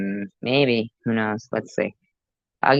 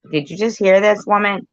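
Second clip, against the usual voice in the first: disbelief; 10 semitones higher, 4 dB louder than usual. Real, not acted. Reacting to the clip in disbelief.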